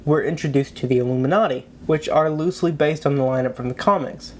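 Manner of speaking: blocked nose from a cold; speaking through a stuffy cold. Real, not acted. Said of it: "Sorry if I sound a little stuffy and unenergetic".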